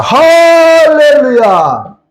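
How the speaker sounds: long, slow, high and loud 할렐루야; shouted hallelujah. Real, not acted. Preacher rousing the congregation, drawn-out shouted hallelujah. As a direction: stretch it out and shout it to the rafters. Climax of sermon point.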